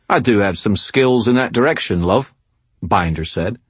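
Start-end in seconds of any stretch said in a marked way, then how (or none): 0.1-2.3 a lightly voiced smug Cockney heavy. A narrator's reading. Binder greets Dresden while hunting Morgan, smug Cockney. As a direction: slick Cockney villain, mildly mocking.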